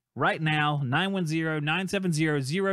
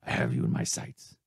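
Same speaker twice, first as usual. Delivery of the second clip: much lower menacing action-hero threat; Liam Neeson voice. Retold or imitated. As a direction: growl it low like a movie hunter. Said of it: "That's my Liam Neeson voice".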